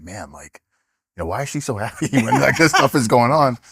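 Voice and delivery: incredulous laugh. Retold or imitated. Imitating own puzzled thought, laughing.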